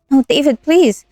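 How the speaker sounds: high frightened plea; pleading. Acted. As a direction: beg him, voice rising. Girlfriend begging during attack.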